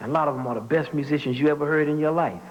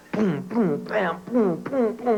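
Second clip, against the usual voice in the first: rising boom bam boom; imitating messy band; 6 semitones higher, slower than usual. Kids playing together badly, mild imitation. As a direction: mimic a clumsy band. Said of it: "the worst thing you ever heard".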